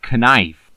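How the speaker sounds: "knife" with the silent K sounded; pronounced K in knife. Shown as a demonstration. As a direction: say "knife" as kuh-NIFE. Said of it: "It would be like saying".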